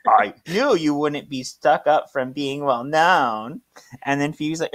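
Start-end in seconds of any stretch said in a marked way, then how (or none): 0.1-3.6 higher-pitched gushing thanks; Mister Rada. Acted. Flatters Phoebe after her reassurance, exaggerated gushing. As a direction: lay on hammed-up flattery, high at first. Same gushing character replies.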